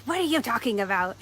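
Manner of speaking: a touch of outraged disbelief, played for the story; mock indignation. Angry monk answering his companion, mildly indignant. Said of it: "looks at the angry monk".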